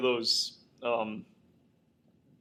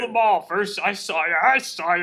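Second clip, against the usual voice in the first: raised, insistent mock accusation; Mel; 5 semitones higher, 6 dB louder than usual. Host acts Mel accusing Ricky, worked-up melodrama. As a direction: hurl the accusations in a hammy rush. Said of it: "he's like".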